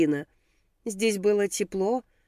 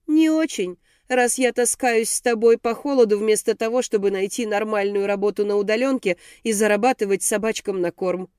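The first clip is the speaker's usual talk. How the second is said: sarcastic. Acted. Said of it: "Она съязвила".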